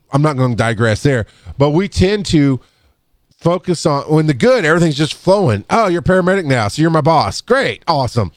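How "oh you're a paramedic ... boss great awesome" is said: higher, sarcastic enthusiasm; joking with a new boss; mock cheer. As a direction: overdo the praise teasingly. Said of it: "mock cheerful coworker".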